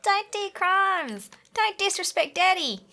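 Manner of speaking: high, slow South African accent impression; Chappy South African accent. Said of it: "It sounds a bit Australian".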